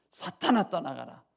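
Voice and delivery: stern rebuke. Retold or imitated. Jesus looks at Peter and rebukes him, stern scolding voice. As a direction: act out a sharp scolding. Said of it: "하고 꾸짖고 책망하셨죠".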